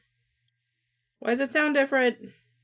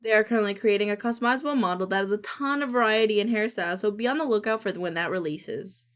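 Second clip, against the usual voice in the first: announcement read. Shown as a demonstration. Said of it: "I gotta re-record lines".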